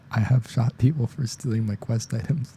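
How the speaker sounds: retry the line while fighting a laugh; holding back laughter. Real, not acted. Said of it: "I'm trying not to laugh".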